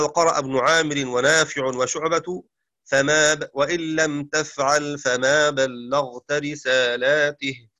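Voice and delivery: verse chanted, slowing at the end; poem recital. Shown as a demonstration. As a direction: recite the line like a didactic poem. (إنشاد بيت من المنظومة)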